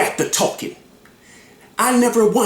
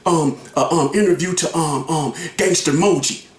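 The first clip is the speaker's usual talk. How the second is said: halting retelling; 5 semitones lower than usual. Retold or imitated. Man shows exactly how it was said, halting re-enactment. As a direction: re-enact a hesitant announcement, stalling on repeated ums. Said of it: "exactly how I did it".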